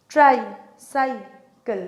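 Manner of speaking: "ট্রাইসাইকেল" split slowly into three parts; syllable by syllable. Shown as a demonstration. Teacher breaking the word up for students, syllable by syllable. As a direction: break "ট্রাইসাইকেল" apart with short gaps. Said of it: "আমি ভেঙে দেখাই".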